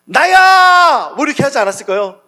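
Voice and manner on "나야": very loud, high, booming shout. Sermon about the storm, acting out the line: very loud '나야'. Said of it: "아주 큰 목소리로 이야기했을 거예요".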